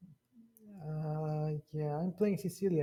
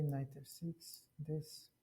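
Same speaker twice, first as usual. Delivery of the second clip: hiccuping through the words; hiccups; 8 dB quieter, slower than usual. Real, not acted. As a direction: talk while holding back a hiccup.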